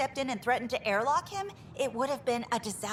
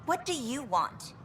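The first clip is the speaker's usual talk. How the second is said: testy, higher-pitched demand; irritated; 4 semitones higher than usual. Acted. Worker turning on a newcomer after an argument, irritated. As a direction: snap at the interruption.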